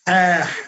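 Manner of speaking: "Ah" with breath flowing out through the throat; letting air flow. Shown as a demonstration. Teacher models the letter for a student, airy Ah. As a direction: let the air run on through "Ah". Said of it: "let the air flow".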